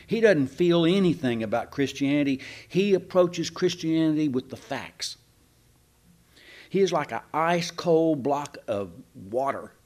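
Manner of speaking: lightly sarcastic, mock-serious; understated ironic preacher. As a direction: say it deadpan, not meaning a word. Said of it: "I'm gonna be sarcastic".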